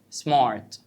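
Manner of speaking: سمارت with a gentle, light R after the A; soft R. Shown as a demonstration. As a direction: say سمارت with the R softened, not rolled. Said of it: "سمارت بالراحة". (نطق سمارت بحرف R خفيف بالراحة)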